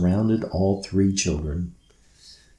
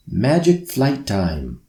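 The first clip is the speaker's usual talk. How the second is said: calling out; 3 semitones higher than usual. Acted. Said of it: "he called out".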